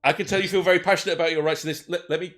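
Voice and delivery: officer at the door, formal and careful; elf police officer. Acted.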